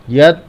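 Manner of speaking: यत् cut short with the tongue held on त्; tongue stopped. Shown as a demonstration. Teacher shows the halant, tongue stopped dead. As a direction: hold the tongue at the teeth to end यत्. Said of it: "जीभ रोक, रोक लेंगे".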